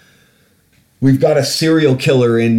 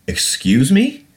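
surprised; 10 semitones higher, slower than usual. Retold or imitated. Shocked reply to cashier.

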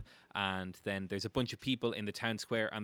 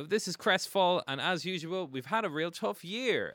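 mayor's speech; 8 semitones higher, 3 dB louder than usual. Acted. Game master as the mayor addressing townsfolk, speechifying. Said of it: "he says".

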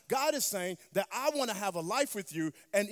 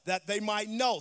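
"know" given extra volume; stress on know; 5 dB louder than usual. Shown as a demonstration. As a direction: build to a firm "know". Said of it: "Emphasis on the word know".

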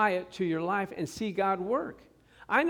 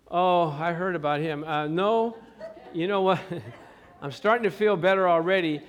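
mock sick caller; 4 dB louder than usual. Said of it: "they're gonna call the church and say".

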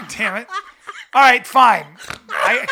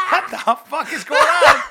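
laughing shout; 4 semitones higher, 5 dB louder than usual. Real, not acted.

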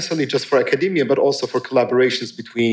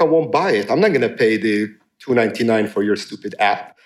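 demanding customer; 2 semitones lower than usual. Retold or imitated. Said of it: "they seem to have the attitude".

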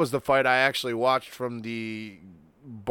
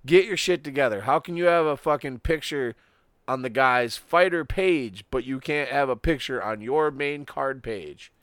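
loud, raised-pitch rant easing toward the end; mock scolding; 3 semitones higher, 4 dB louder than usual. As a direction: chew out the organization, half in jest. Mock rant addressed at the UFC.

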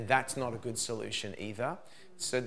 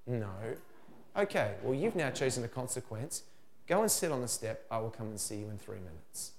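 calm firm parent; 3 dB quieter than usual. Shown as a demonstration. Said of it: "then I'll say to him".

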